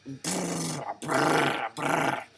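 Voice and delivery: rapid brr gunfire noise; machine gun sound. Retold or imitated. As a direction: imitate a machine gun with lips. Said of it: "like a machine gun".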